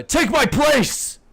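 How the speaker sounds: high, loud, drawn-out yell; urgent acted holler. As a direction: shout it slowly over to someone in the cart. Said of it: "He just yells off into the cart".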